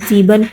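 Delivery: "زیبن" begun with a buzzing Z; S pronounced as Z. Shown as a demonstration. Teacher showing learners the German seven, "زیبن" with a Z sound. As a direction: say "زیبن" with initial S voiced as Z. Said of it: "جو زیڈ کی آواز نکالتا ہے".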